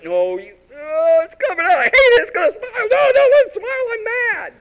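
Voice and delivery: very high, very loud mock tantrum; hammed-up shrieking. Kid fights mom's forced smile, hammed-up screaming. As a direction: screech it like a kid losing a tickle fight.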